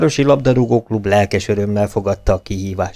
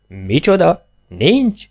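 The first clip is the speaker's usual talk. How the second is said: higher, mildly astonished outcry; a lightly acted jolt of disbelief; indignant cry; 8 semitones higher, much slower than usual. A narrator's reading. Young man crying out at the doubting players. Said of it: "kiáltotta az ifjú".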